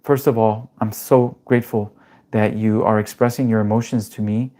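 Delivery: a calm, measured demo reply to an angry boss; calm assertive reply. Shown as a demonstration. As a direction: answer the yelling boss with grounded calm. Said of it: "And I'm gonna say".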